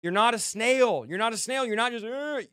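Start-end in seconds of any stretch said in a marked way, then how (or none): 2.1-2.5 whiny "ugh" imitating a crybaby; mock whining groan. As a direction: groan in mock self-pity. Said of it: "Just stop with the crying".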